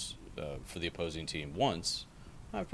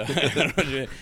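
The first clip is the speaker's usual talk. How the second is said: laughing; 8 semitones higher, 9 dB louder than usual. Real, not acted. Laughing at own joke.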